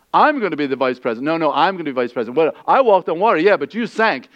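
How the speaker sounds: fast, squabbling back and forth; bickering disciples. Acted. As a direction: play the petty squabble quickly. Disciples arguing, acted quarrel.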